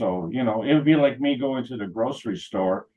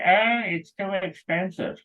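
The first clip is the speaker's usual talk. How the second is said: higher, slow whiny haggler; mock complaining customer; 10 semitones higher than usual. A stingy shopper haggles with the farmer, slow mock whine. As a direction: whine it like a cheapskate.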